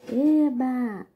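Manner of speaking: bright, high "Eba!" of joy; delighted cheer. Shown as a demonstration. Teacher voicing a comic character, cheering. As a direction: cheer like a happy kid. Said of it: "Perceberam a entonação da leitura?".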